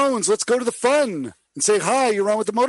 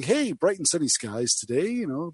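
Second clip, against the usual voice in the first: DJ weather read; 5 semitones lower, 3 dB quieter than usual. Retold or imitated. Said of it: "So you were saying".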